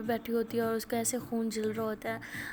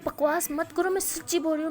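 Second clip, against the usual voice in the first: higher and louder, furious; angry shout; 5 semitones higher, 4 dB louder than usual. Retold or imitated. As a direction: shout her down. Quarrel, friend shouts back.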